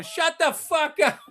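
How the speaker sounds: lightly voiced slow heckle; a hint of an irritated New Yorker; annoyed passerby. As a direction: brush him off like a fed-up stranger. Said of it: "I heard people going".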